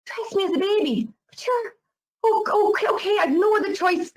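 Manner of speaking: high-pitched, mildly put-out protest; reluctant giant. Acted. Irish giant reacting to his wife's baby plan, high and reluctant.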